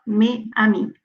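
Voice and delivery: mes amis with no z, me ami; no liaison. Shown as a demonstration. Teacher showing the wrong mes amis, without the z. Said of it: "on ne dit pas".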